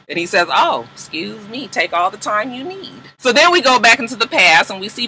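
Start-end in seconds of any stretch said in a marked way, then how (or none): 0.5-3.0 mock deference. Counselor giving way to a bossy client, softly mock-deferential. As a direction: back off with exaggerated politeness. Counselor yields after being told off.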